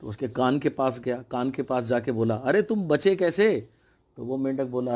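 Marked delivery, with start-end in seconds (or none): 2.3-3.7 shouting into an ear. Retold or imitated. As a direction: call slowly into a deaf frog's ear. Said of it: "कान में जाके बोल चिल्ला के". (बहरे मेंढक के कान में धीरे-धीरे ज़ोर से पुकारना)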